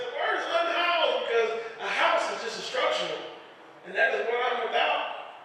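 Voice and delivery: a homeless man lecturing on words; preachy lecture. Retold or imitated. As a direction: proclaim it like a philosophy.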